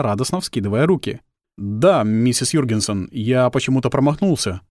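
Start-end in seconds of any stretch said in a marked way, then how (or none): 1.6-4.6 embarrassed. Acted. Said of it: "смутился Эндрю".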